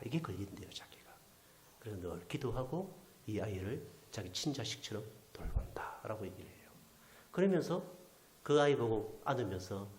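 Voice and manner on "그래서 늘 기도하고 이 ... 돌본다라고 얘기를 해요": ordinary delivery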